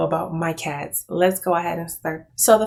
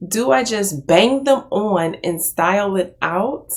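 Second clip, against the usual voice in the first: laughing while reading. Real, not acted. Rereads line while laughing.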